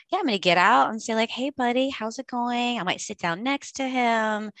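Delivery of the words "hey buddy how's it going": put-on easy, friendly greeting to a crying kid; calm and friendly. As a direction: keep it light and calm, like a kind adult. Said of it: "be as calm as I can be".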